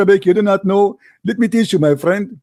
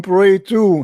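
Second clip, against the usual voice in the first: "to" slowed and leaned on; stress on TO. Shown as a demonstration. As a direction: land firmly on "to", drawn out. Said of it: "There is a huge difference".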